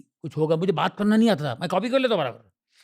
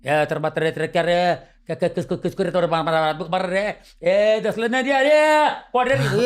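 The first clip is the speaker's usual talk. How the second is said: tough street dialect; 3 dB louder than usual. Retold or imitated. Old neighbourhood goons squaring off, Mumbai street dialect getting louder. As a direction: imitate a local tough picking a fight, ending in a shout. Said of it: "ये उनका ये, ये language होती थी उनकी".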